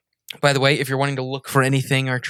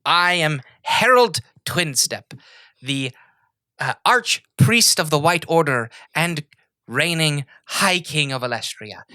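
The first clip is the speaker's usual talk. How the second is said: slow, louder, higher kingly announcement; grand royal proclamation; 4 semitones higher, 4 dB louder, slower than usual. Acted. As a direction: proclaim your titles slowly and grandly. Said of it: "And he goes".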